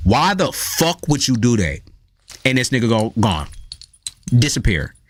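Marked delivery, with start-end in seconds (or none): 0.0-1.8 cross, angry, acted scolding tone. Retelling scolding their cat, reenacting a raised voice. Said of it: "I raise my voice".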